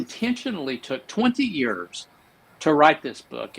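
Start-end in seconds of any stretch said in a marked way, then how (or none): 0.0-0.8 "intentionally" said with deliberate emphasis; stress on intentionally. Real, not acted. Host underlining the author's long effort, stressing "intentionally". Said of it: "I want to emphasize the word intentionally". 0.8-2.1 slow, weighty "twenty years" with "twenty" stressed; emphatic stress. Real, not acted. Host marvelling at how long the book took, stressing "twenty". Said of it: "I want to emphasize the word intentionally".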